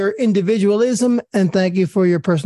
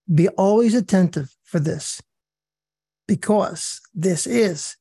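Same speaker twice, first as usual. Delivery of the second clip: slow, solemn prayer read with long pauses; slower than usual. Acted. Leading the sisters in a closing prayer, slow and solemn. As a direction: pray it slowly and reverently, letting each phrase settle.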